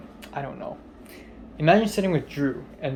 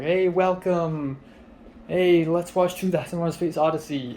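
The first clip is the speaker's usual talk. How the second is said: slightly hammed-up host greeting, pitched higher; imitated stage host; 4 semitones higher than usual. Guy randomly on stage welcoming the movie audience, mimicked host. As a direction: stretch out the welcome like an MC.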